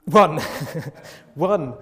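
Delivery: loud group-response "One"; called out together. Real, not acted. Preacher leads congregation in answering together, called out loudly. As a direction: call it out loudly for all to join. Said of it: "we can all say it together".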